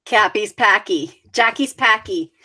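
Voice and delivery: broad Boston, flattened A's; New England Boston twang on each word; Boston accent. Shown as a demonstration. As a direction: demonstrate the flat Boston vowel. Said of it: "you have the Boston accent".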